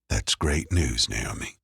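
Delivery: slow, warm and pleased; smiling voice. A narrator's reading. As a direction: let the smile show in the words. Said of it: "hear the smile in his voice".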